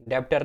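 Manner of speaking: "डेबिटर" said as deb-tar, b sounded; wrong pronunciation. Shown as a demonstration. Teacher rejects the mistake for students, wrongly sounded b. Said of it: "नहीं है".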